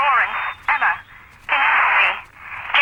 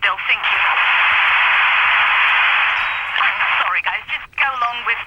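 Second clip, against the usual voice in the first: bad phone line. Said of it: "You sound like you're on a really bad phone line".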